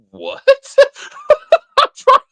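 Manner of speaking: high shrieking laughter; losing it completely; laughing fit. Real, not acted. Host losing it laughing at the chat.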